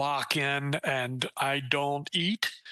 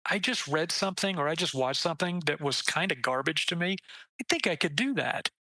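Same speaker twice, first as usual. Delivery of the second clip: excited realization; 3 semitones higher than usual. Retold or imitated. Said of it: "and going".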